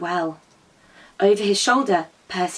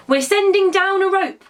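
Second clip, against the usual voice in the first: calling out; 10 semitones higher than usual. A narrator's reading. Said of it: "called Percy".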